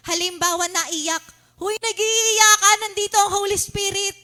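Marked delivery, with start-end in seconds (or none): 1.6-4.2 mock tearful worshipper. Mocking emotional church crowd.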